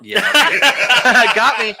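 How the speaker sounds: high, slow words squeezed out through real laughter; laughing. Real, not acted. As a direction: let the laugh carry the words. Laughing at friend's joke.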